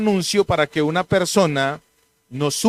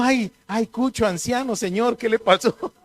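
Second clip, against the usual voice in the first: mock pity; 5 semitones higher than usual. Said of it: "todo el mundo".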